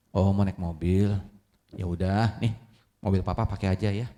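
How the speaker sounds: a hint of a gentle dad; patient father. Father calmly offering his son the old car, low and soft.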